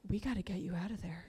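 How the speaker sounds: a hushed, urgent whisper like a witness protection chief; hushed secret agent. Retold or imitated. Friend warning her in a hushed undercover whisper. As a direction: whisper it like you're smuggling someone out. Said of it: "like she was the head of witness protection".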